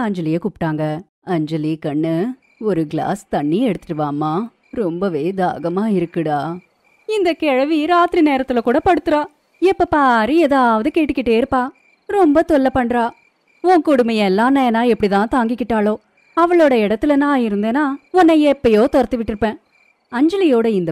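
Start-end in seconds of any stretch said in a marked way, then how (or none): 1.2-6.4 a touch low, endearing request; coaxing plea. Acted. Injured mother-in-law asks favourite for water. 7.1-19.6 high-pitched, exasperated complaint; irritated ranting. Acted. Daughter-in-law rants about mother-in-law.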